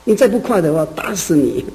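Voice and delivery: impatient man threatens the snail, exasperated; mock angry threat. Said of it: "那个人很不耐烦".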